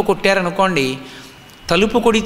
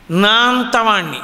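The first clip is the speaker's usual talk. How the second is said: proud boast. Retold or imitated. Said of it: "అన్నాడంటే ఏదో ఒక విభూతి".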